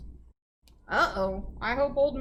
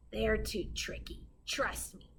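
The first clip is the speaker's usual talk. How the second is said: whispering wolf; 7 dB quieter than usual. Acted. Wolf whispering advice to the witch. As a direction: hiss the secret from the shadows.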